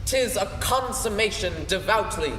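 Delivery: a touch of theatrical Hamlet; stage recitation. Acted. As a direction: recite it as the brooding prince. The speaker performs the Hamlet soliloquy.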